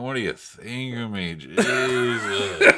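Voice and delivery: high, loud laughing gasp of a word; laughing exclamation. Real, not acted. Cohost laughing at being teased about the movie. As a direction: laugh it out in disbelief.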